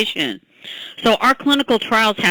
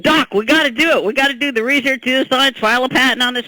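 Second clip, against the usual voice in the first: a higher, keen voice for Crush urging her on; imitating Crush; 3 semitones higher than usual. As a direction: play the eager partner pushing to start. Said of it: "and he goes".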